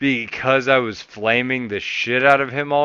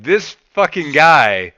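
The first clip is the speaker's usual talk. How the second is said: much higher and louder, raging at a teammate; toxic blunt rant; 8 semitones higher, 8 dB louder than usual. Retold or imitated. Yelling at the jungler to come bottom, furious and blunt. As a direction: berate him for being in the wrong lane. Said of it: "super toxically blunt".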